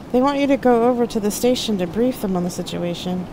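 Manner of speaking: high-voiced, careful messenger; apologetic Loki. A narrator's reading. Loki telling Jack the station is calling, apologetic. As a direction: relay the message in a high, apologetic voice. Narrator plays Loki, second take.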